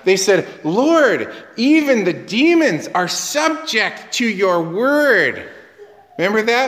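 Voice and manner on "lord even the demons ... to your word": excited report. Retold or imitated. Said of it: "how excited they were about this".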